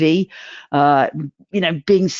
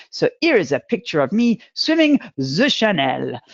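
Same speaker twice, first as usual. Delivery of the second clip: light mock French accent, Channel said as Chanel. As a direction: ham up a French-accented English boast. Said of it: "I always think in a French accent".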